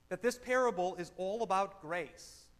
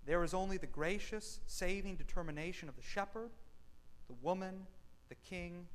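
measured, emphatic reading of a quoted text; formal reading aloud. Acted. Pastor reading Capon to the congregation, measured and emphatic. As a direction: read it like scripture, weighing each clause.

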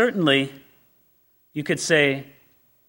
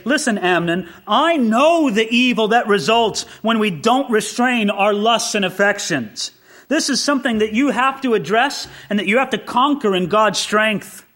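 firm, acted fatherly admonishing; a touch of stern correction; earnest rebuke; 4 semitones higher than usual. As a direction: press the point as a father correcting his son. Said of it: "a rebuke here".

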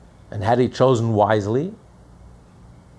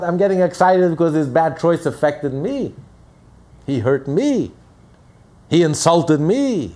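louder, rising indignant complaint; voicing an angry victim; 4 semitones higher, 4 dB louder than usual. The offended man protesting that he was hurt, mounting indignation. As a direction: list each grievance with growing heat.

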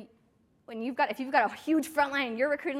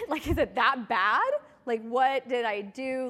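alarmed; 6 dB louder, slower than usual. Retold or imitated. Shay panics at the crying client.

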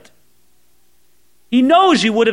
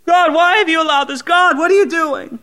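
mock desperate scream; 6 semitones higher than usual. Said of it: "we're screaming".

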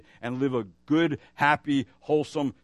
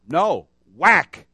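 put-on child's denial; 3 semitones higher, 10 dB louder than usual. Child denies, bat whacks.

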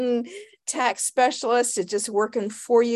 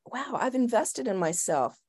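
soft and awed; 6 dB quieter than usual. Shown as a demonstration. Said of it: "What does it feel like?".

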